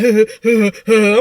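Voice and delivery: mock "huh, huh" chuckle; imitated laugh. Girlfriend sitting there laughing, imitated mocking chuckle. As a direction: imitate her laughing in short huffs. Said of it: "sitting there laughing like".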